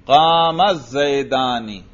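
"قام الزیدانی" run together as qaamaz-zaydaani, slowly; fluent joined reading. Shown as a demonstration. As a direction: link "قام" straight into "الزیدانی", long vowels held. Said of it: "روانی سے پڑھ دو اس کو". (روانی سے ملا کر "قام الزیدانی")

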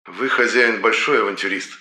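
demon mimicking reproachful tone; disapproving demon voice. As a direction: copy her scolding tone. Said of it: "копируя осуждающие нотки в голосе Шеллы".

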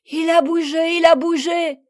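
high, loud joyful exclamation; excited cry. A narrator's reading. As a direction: cry out in delighted amazement. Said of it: "s'écrièrent ensemble les quatre petites". (cri de joie excité)

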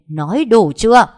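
high, very loud demand; explode, out of patience; angry shout. A narrator's reading. Cậu ba losing control at the quarrelling, angry shout. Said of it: "liền hét lên".

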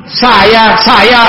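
high, disapproving echo; imitated displeasure. The Prophet repeating Jabir's vague answer, imitated displeasure. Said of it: "seolah beliau tidak menyukainya".

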